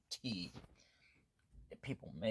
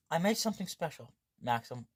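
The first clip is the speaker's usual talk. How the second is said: proud cook; 2 semitones higher, 5 dB louder than usual. Acted. Voicing girl presenting her cooking.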